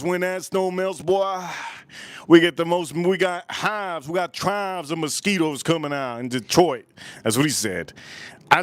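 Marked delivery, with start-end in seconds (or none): 0.0-6.9 imitated thug, raised pitch; put-on street tough giving a dire warning; Detroit thug. Thug warning about mosquito hives, imitated high, insistent voice. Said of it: "one of the thugs from Detroit".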